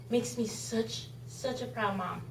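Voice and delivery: ordinary talk, nothing marked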